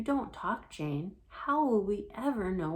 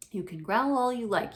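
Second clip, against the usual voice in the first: louder, determined cat; firm and loud; 4 semitones higher, 7 dB louder than usual. Acted. Alexander insisting as he pins her tail, firm and loud. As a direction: raise the voice, standing firm.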